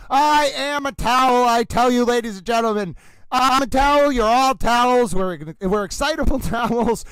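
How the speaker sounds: the towel rallying its fellow towels; lightly voiced excited towel; Little Towel voice. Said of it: "Stay with Little Towel".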